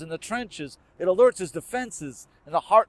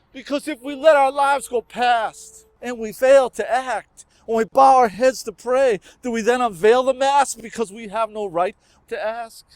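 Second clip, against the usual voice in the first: raised, forceful poetic plea; impassioned climax; 3 semitones higher, 4 dB louder than usual. Acted. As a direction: drive the verse hard toward its final question. Poem builds to impassioned climax.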